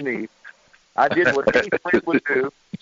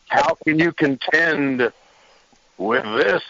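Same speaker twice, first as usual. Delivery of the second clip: Sting scorpion voice; slower than usual. Retold or imitated. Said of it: "in a scorpion voice".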